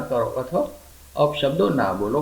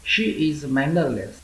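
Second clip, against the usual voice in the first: very slow, every word laid out for learners; slow model reading; much slower than usual. Shown as a demonstration. Teacher reading an English sentence for Gujarati learners, very slow. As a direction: spell it out slowly so students can copy.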